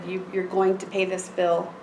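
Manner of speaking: matter-of-fact, no-nonsense terms; firm and understated, no pleading; retold blunt warning. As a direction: lay down payment terms bluntly. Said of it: "I'm very blunt".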